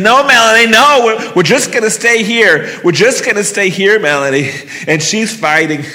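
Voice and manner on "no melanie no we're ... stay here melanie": raised, higher, urgent soothing; pleading calm-down. Retold or imitated. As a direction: hold her back with your voice. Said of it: "And I'm saying".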